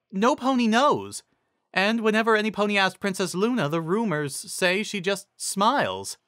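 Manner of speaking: high, hushed intrigue; high teacher voice. A narrator's reading. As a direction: tell it high and secretive. Cheerilee voiced.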